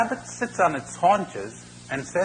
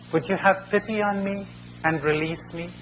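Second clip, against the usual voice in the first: higher, drawn-level plea for pity; pleading crocodile; 7 semitones higher than usual. Acted. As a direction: beg for release as a trapped crocodile, lightly voiced. Trapped crocodile begs the boy.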